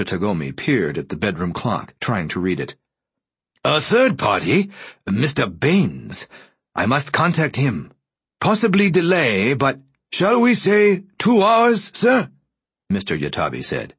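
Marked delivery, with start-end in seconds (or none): 3.6-12.3 put-on high, dry, papery old voice; dry rustling voice. A narrator's reading. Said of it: "a faint, dry, rustling voice".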